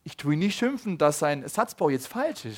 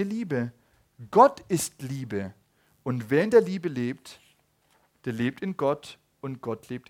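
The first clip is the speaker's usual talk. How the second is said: solemn scripture reading. Acted. Preacher reads First John to the church, slow and solemn. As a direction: read the verse slowly and with weight. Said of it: "den lese ich euch kurz vor".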